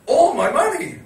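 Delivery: high-pitched mock lament; hammed-up despair of a broke mate; imitated dismay. Friend in taxi with empty wallet, mock dismay.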